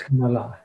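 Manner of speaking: Kamala with short first syllables and long final LA; two quick short vowels in Kamala, then hold the last; correct Kamala. Shown as a demonstration. Poet summing up the right pronunciation, Kamala with long last vowel. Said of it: "The last one is a long one".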